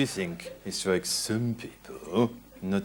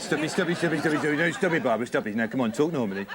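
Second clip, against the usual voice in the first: rapid repeated pleading to stop; hurried, irritated host; exasperated interruption; 5 semitones higher, much faster than usual. Acted. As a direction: cut in, mildly fed up, and keep nagging. Host cuts off uptalking guest.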